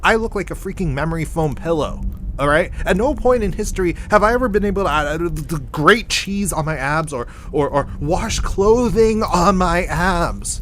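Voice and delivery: loud, indignant comic tirade; worked-up, high and loud complaint; exasperated rant. Acted. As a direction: protest hotly, stumbling over the comparisons. Comic rant at his doppelgangers.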